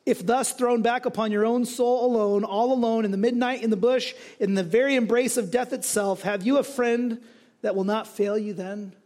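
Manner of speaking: lifted recitation building phrase on phrase; lightly dramatic quotation reading; earnest testimony reading. Acted. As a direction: read it as a pressing question to the listeners. Reads a friend's written testimony aloud.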